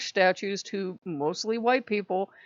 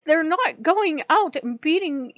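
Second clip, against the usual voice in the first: louder, higher and slow; slow emphatic scolding; 6 semitones higher, 6 dB louder than usual. Retold or imitated. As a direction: spell out the absurdity. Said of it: "I'm like".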